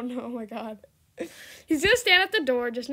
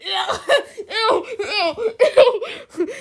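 giggly disgusted ews, higher; laughing ew; 7 semitones higher, 4 dB louder, slower than usual. Real, not acted. Streamer giggling in disgust at the flowers. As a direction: squeal ew through laughter.

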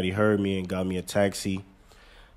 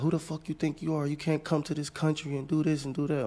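higher, scornful mock cop voice; imitating police officer; 8 semitones higher, 4 dB quieter than usual. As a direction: sneer like the cop, pitched up. Officer quoted.

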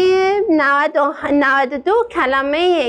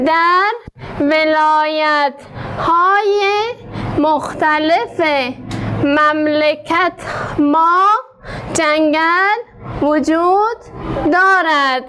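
slow, word-by-word reading; slow model reading. Shown as a demonstration. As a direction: read it slowly so pupils can follow. (خواندن کلمه به کلمه و آهسته)

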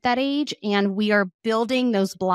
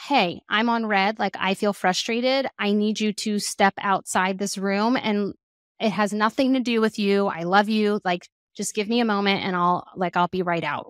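calm. Shown as a demonstration. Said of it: "demonstrate, like".

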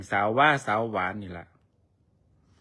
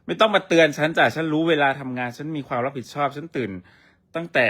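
snippy retort; 3 semitones higher, 4 dB louder than usual. Pretend. Bickering with her partner on live, sassy loud retort. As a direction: snap back that she is punctual.

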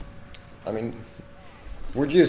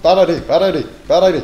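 game voice line; 10 semitones higher, 16 dB louder, much faster than usual. Acted.

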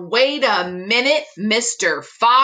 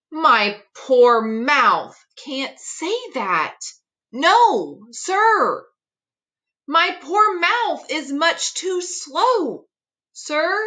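mildly whiny Knox; 4 semitones higher than usual. Acted. Knox complains to Fox.

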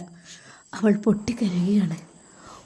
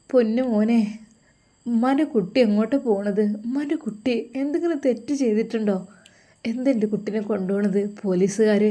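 distraught pleading mother; 3 semitones higher than usual. Acted. Mother pleading as son is taken.

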